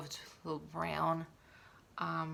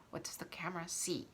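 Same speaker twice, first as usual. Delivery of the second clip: whispered question; 5 dB quieter than usual. Real, not acted. Rhetorical aside about camera.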